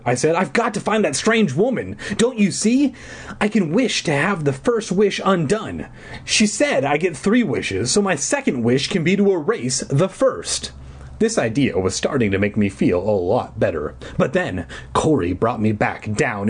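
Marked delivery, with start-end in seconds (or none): 0.3-10.7 lightly voiced frantic girl. High urgent Sam voice.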